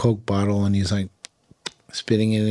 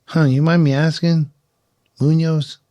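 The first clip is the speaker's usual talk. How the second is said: higher, louder Oklahoma cowboy voice; drawling cowboy; 7 semitones higher, 4 dB louder than usual. Retold or imitated. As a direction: play the tobacco-chewing Oklahoma local. Oklahoma equipment manager voiced in story.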